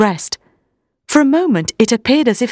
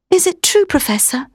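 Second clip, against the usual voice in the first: tearful plea; 9 semitones higher than usual. Acted. Mina in tears.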